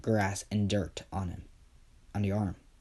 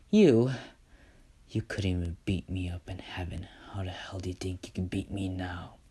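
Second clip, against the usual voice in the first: sneering whisper; 2 semitones lower than usual. Acted. Izuku mocks his brother.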